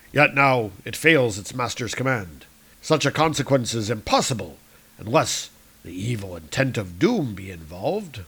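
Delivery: proud archaic hero; Thor. Acted. Thor telling Salandra of Mjolnir, proudly. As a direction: declaim the hammer's legend. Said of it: "Thor speaks".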